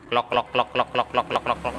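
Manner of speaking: steady klok klok knocks; imitated knocking. Shown as a demonstration. Mechanic demonstrating the knock source for the customer, even klok sounds. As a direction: tap out the knock evenly. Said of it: "ini jadi sumber suara".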